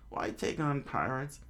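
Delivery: put-on high-pitched questioning old-timer; old man. Old man questions the newcomers, high voice. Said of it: "the old man said".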